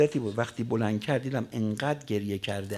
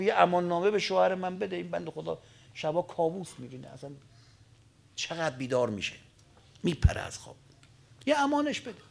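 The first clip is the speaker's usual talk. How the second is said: sister's plea; 4 semitones higher, 4 dB quieter than usual. Acted. Sister pleads for her husband.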